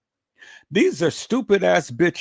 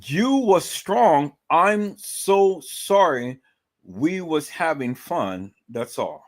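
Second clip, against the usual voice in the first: slow mock Ebonics read; slower than usual. Shown as a demonstration. Rereading the post for viewers in slow mock Ebonics. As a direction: stretch each word out in mock Ebonics. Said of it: "listen to that again".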